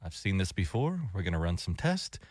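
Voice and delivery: lightly voiced calm, reassuring doctor. Co-host playing a doctor reassuring a patient, calm. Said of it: "your doctor to be calm and say".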